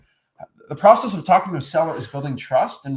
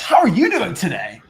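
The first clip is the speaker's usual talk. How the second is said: loud, higher, hammed-up sales greeting; mock the over-eager salesman; fake wholesaler; 4 semitones higher, 7 dB louder than usual. Coach mimics wholesalers greeting sellers, fake and overblown. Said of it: "does that sound real?".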